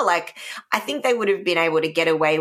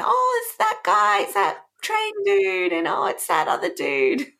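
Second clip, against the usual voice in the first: mock delighted recognition; 10 semitones higher than usual. Voicing viewers recognising zombies.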